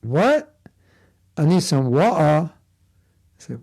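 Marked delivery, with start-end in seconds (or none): 0.0-0.6 puzzled American. Retold or imitated. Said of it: "And they'll say". 1.4-2.5 mock British accent. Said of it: "turn off your British accent".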